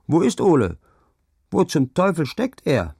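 high, loud impatient calls; high, loud shouting search. A narrator's reading. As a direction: bellow where he is. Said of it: "schrie die Marschjugend".

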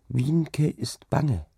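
put-on slow, high little-girl voice; timid, drawn-out confession; scared child. A narrator's reading. Frightened child confides in mother. (bange, langsame Kinderstimme)

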